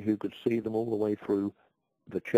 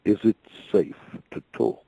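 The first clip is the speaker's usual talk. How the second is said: mysterious voice; 6 dB louder than usual. Retold or imitated. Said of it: "this mysterious voice said".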